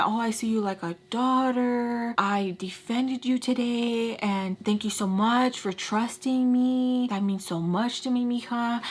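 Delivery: slow, drawn-out sweet-talk; sugary nice. Retold or imitated. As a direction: imitate him wrapping it nice, slowly. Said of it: "making sure to wrap it nice".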